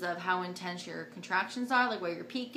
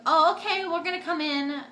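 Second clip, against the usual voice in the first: high, loud mock surprise; retold startled reply; 8 semitones higher, 7 dB louder than usual. Nurses answering mom's call, mock startled reply.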